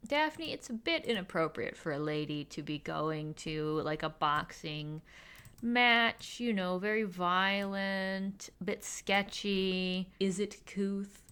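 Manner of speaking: slow, hesitant mock motherly disapproval; a bit frustrated. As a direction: drag out the mildly frustrated objection. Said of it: "is a bit frustrated 'cause she's like".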